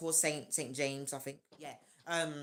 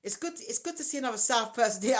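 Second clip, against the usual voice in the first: put-on South London accent; 4 semitones higher than usual. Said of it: "hear the South come out of him".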